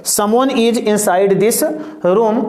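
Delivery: words dragged out very slowly; very slow classroom dictation. Shown as a demonstration. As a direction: stretch the sentence out for note-taking. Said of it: "repeats example even slower".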